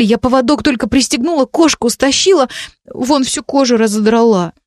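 put-on frightened teenage girl reliving it; upset girl. A narrator's reading. Girl recounting trauma, upset.

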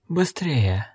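soft, hoarse, lifeless wheeze; wheezing rasp. A narrator's reading. Necromancer rasping to the men he will break the lock. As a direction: hiss it out like something dead. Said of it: "В голосе его не было ничего живого".

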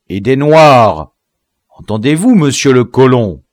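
imperious, offended tirade; indignant rebuke. A narrator's reading. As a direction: humiliate the prisoner with angry questions. General humiliates and rebukes prisoner.

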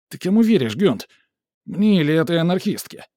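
high, loud desperate appeal; cornered man shouting his case; panicked protest. A narrator's reading. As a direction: plead loudly and high.

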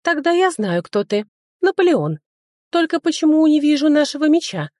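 high, eager dryad voice; young dryad surprised by Napoleon. A narrator's reading. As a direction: chirp it like a curious girl. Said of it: "удивилась дриада".

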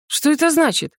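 high, thin squeak of a nervous student; squeaky question. A narrator's reading. Nervous Alan asks the master, squeaked. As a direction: squeak it out in alarm. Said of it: "пискнул Алан".

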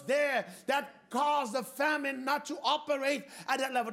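driving, insistent sermon delivery; fervent preaching. Real, not acted. Preacher assuring the congregation of God's provision, fervent preaching. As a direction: preach it with rising conviction.

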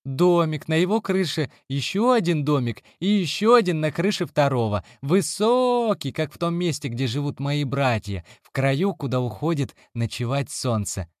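put-on high, eager little girl voice; cartoon princess. A narrator's reading. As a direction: dream aloud like a small child. Child Nina describes house.

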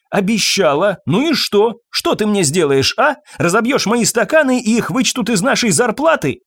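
high, loud taunting; mocking fury. A narrator's reading. Irene taunts Fabien with his own words, loud and high. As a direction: throw his words back at him.

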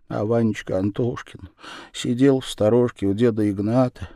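usual speaking voice

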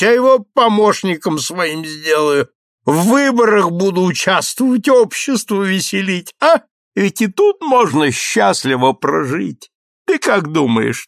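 excited, tipsy count pleading with his friend. A narrator's reading. Граф говорит пьяно, восторженно. (восторженный подвыпивший граф)

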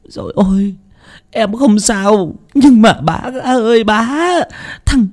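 high, breaking voice, choking on the news; choked sobbing. A narrator's reading. Younger sister bringing terrible news, choked high sobbing. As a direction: fight through sobs to get the words out. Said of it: "nói trong tiếng nấc nghẹn ngào".

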